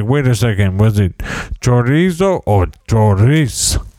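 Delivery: "chorizo or chorizo" said two ways, mock-precise; fussy pronunciation. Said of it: "He doesn't talk like that".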